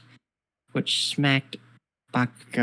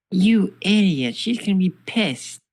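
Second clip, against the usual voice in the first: high-pitched acted yell of exasperation; angry yell; 7 semitones higher, 4 dB louder than usual. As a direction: yell it at a reckless teammate, pitched up. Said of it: "Jack just yells at Yakumo".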